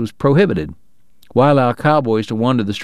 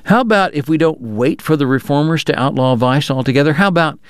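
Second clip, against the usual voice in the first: offhand suggestion; 3 semitones higher than usual. Acted. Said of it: "like he was offering an idea that had just occurred to him".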